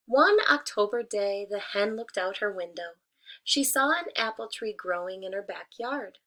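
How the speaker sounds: gentle storybook narration; reading to children. A narrator's reading. Teacher reading a fable to her class, storybook voice. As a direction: read it like story time for kids.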